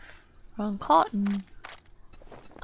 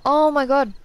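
yawning; 4 semitones higher, 7 dB louder than usual. Real, not acted. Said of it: "Why am I yawning?".

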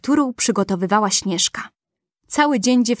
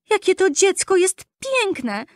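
high, slow, awed dwarf voice; dwarfs in wonder; 10 semitones higher, slower than usual. A narrator's reading. Dwarfs gaze at sleeping Snow White, high and slow with wonder. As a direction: marvel at the child, much higher and slower. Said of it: "wołali".

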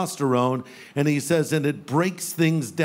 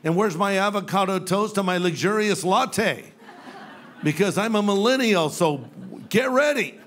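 entitled millennial; 2 semitones higher than usual. Retold or imitated. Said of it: "they think".

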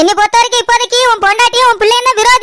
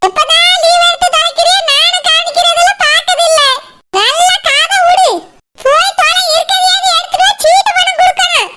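higher, exasperated scold with a bitter laugh at the end; irritated scolding; 6 semitones higher than usual. Acted. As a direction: berate her and wave her off. Mother-in-law berates daughter-in-law. (லீவு எடுத்ததற்காகத் திட்டும் மாமியார், எரிச்சல் குரல்)

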